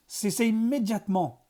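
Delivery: ordre rugi, plus haut et plus fort; rugissement. A narrator's reading. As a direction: rugis l'ordre. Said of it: "rugit Blickman". (directeur qui rugit)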